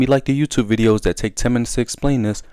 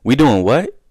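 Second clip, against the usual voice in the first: raised, louder disbelief; incredulous; 4 semitones higher, 4 dB louder, slower than usual. Retold or imitated. Telling friends he won't go along, in raised, louder disbelief. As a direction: act like you can't believe what you heard. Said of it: "I'm like".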